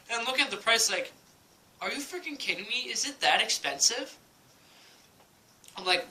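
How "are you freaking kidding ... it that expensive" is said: higher-pitched incredulous question; playfully appalled, voice lifting at the end; mock disbelief. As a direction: re-enact sticker shock, pitch swinging up. Acts out reacting to the price.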